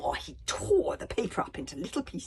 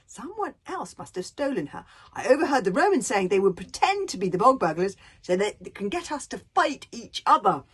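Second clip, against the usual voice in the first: Hiccup's voice; 2 semitones higher, 7 dB louder than usual. Acted. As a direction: reason calmly with an angry dad. Hiccup explains to Stoic.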